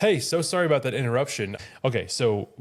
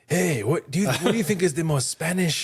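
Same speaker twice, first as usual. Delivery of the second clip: imitating Brad; 6 semitones higher than usual. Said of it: "when Brad opened it up with".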